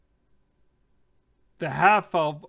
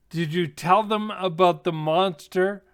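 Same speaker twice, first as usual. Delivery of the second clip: raised, challenging voice; sharp retort; 3 semitones higher, 6 dB louder than usual. Acted. Half-elf challenging the dwarf before strangers, retorting. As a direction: throw the question back, louder. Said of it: "retorts the half-elf".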